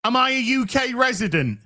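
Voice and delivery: incredulous. Retold or imitated. Incredulous echo of the question.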